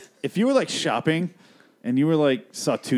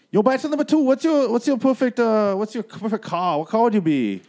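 excited game show host; 9 semitones higher, 3 dB louder than usual. Acted. Host quizzes bachelor two.

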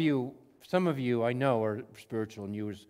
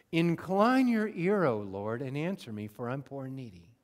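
scripture reading; 3 dB louder than usual. Shown as a demonstration. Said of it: "Starting in verse one".

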